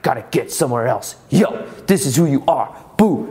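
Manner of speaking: mildly pushy, driven tone imitating his old self; a touch of restless hype; a bit angry. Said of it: "It's a little bit more angry".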